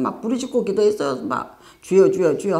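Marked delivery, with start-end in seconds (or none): 1.8-2.6 louder, imitated cry of Lord Lord; mock the old loud calling on the Lord; crying out in prayer. Preacher imitates the congregation crying out to God, louder. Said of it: "막 부르짖고 기도를 했어요".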